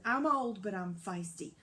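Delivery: out of breath, talking tough; panting through brave words. Acted. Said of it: "the cow panted".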